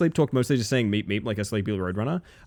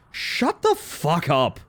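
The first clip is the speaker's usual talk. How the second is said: mock angry, pissed, slow, pitched-up delivery; 5 semitones higher than usual. Retelling a brother's answer while sleep talking: imitating a pissed tone. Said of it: "in a pissed tone".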